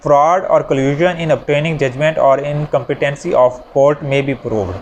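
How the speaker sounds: slow, deliberate reading of a legal heading; article heading read out. Shown as a demonstration. Law teacher reading the article title to students, slow and deliberate.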